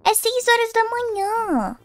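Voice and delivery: high, slow indignant exclamation; indignant outrage. Acted. Sister confronting brother coming home at dawn, outraged. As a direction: stretch it out in outrage.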